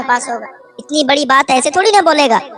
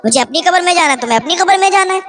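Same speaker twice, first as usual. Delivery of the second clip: higher, teasing mock of husband; wife mocking her husband's nagging, higher and teasing; mocking taunt; 6 semitones higher, faster than usual. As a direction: toss it off with a higher mocking lilt. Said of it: "مذاق بناتی تھی".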